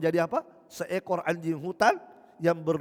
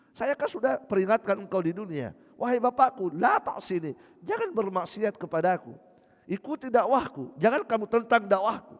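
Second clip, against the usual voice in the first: pleading son; 3 semitones higher than usual. Acted. Ibrahim pleads with his father.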